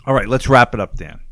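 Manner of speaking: put-on loud Boston accent, playful; hammy Boston accent wrap-up. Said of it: "I gotta break into my Boston accent".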